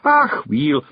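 brushing it off with a Scots ach; dismissive. Acted. Rob brushes off Billy's reading, dismissive. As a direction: wave it away. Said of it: "said Rob Anybody dismissively".

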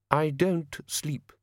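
slow, cold and clipped-off; chilly, slow brush-off to the gnome; icily. A narrator's reading. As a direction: let each word land like ice. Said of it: "said Frost icily".

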